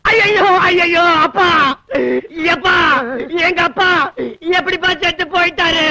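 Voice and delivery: acted wail of grief; tearful wailing. Man lamenting his father's death to the messenger, wailing. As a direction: cry out for a lost father. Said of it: "அழுகாதீங்க".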